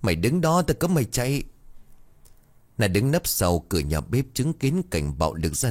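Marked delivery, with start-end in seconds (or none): 0.0-1.4 much higher, clenched threat; through gritted teeth. A narrator's reading. Drunk father forbidding his daughter to flee, gritted-teeth threat. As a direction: grind it out at her. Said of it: "nghiến răng nghiến lợi".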